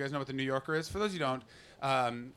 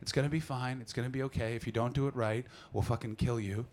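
sweet floor manager; 3 semitones lower than usual. Retold or imitated. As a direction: soothe sweetly while threatening. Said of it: "She's just there to be like".

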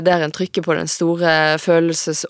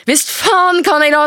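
much higher and louder defiance; defiant shout; 11 semitones higher, 5 dB louder than usual. Acted. Daughter shouting defiance at her mother. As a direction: spit it back at her.

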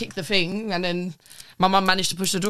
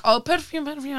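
high, sing-song seller's call; lightly voiced street hawker; mock pushy seller; 9 semitones higher than usual. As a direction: imitate the pushy perfume seller. Imitating shop seller's pitch.

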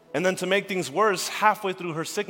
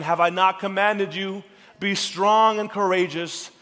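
proclaiming scripture; 3 semitones higher, 6 dB louder than usual. Acted. Preacher proclaims scripture loudly.

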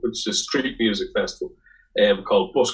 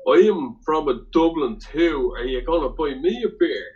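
high, hammed-up Italian accent; sing-song mock Italian-accented English; mimicked Italian accent; 5 semitones higher than usual. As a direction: cheekily parody an Italian claiming to be Irish. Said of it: "uh, Italian guy".

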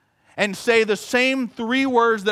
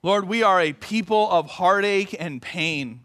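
prayer; 3 semitones lower than usual. Real, not acted. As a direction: lead the congregation in prayer. Leads prayer.

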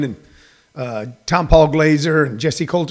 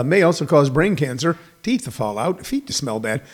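fading, softer fine-print read; disclaimer voice; 4 semitones lower, 6 dB quieter than usual. Retold or imitated. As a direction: rattle off the side effects, trailing away. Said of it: "a little thing under it going".

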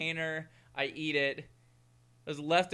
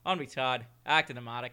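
put-on hammy podcast intro in an Irish accent. Podcast host introducing the co-hosts, mock Irish accent. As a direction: put on a light Irish brogue. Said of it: "I'm gonna put on my Irish accent".

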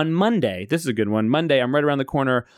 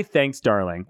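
lower, patronizing purr; condescending thanks to a woman; mild mock Trump; imitating Trump; 6 semitones lower, slower than usual. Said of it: "He did say".

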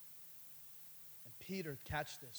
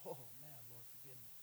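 mock confession to the Lord; sheepish confession; 3 semitones lower, 8 dB quieter, slower than usual. Preacher voicing a convicted believer, lightly sheepish.

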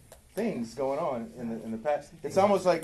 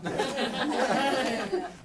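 high-pitched sitcom-character laugh; Arnold Horshack laugh; 10 semitones higher than usual. Acted. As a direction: laugh in a high, comic honk of an impression. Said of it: "Arnold Horshack over here".

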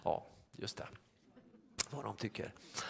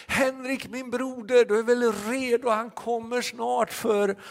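high, loud, slowing preacher voice for Henrik; a barber turning suddenly into a loud, high evangelist; preachy barber; 11 semitones higher, 8 dB louder than usual. Retold or imitated. Barber urging his customer Henrik to be ready, high loud preaching. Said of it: "Så han tittade".

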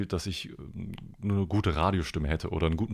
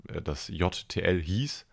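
hieß leaned on, slow; slowly, with the stress on hieß; slower than usual. Shown as a demonstration. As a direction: give the past tense hieß the weight. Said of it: "Betonung auf hieß".

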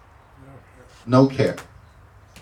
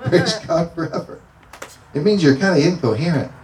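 holy laughter; 6 semitones higher than usual. Real, not acted. Laughing while drunk in the Spirit.

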